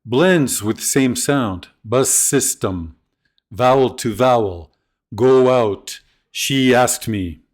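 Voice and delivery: slow linked phrases; careful linking demo. Shown as a demonstration. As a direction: join bus system and go out smoothly. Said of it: "more common types of linking".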